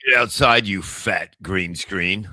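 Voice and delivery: hammed-up shouted command; mock angry order. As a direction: playfully yell it out like banishing someone. Acts out shouting at green screen.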